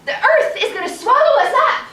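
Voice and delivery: high, loud proclamation; proud chicken announcement. Acted. Chicken announcing doom to the town, loud and high. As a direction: crow it out to the whole street.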